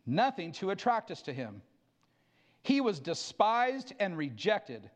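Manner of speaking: measured, solemn reading of Isaiah; scripture reading. Acted. Pastor reading Isaiah 53 to the church before communion, solemn. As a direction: read it slowly and reverently, letting it weigh.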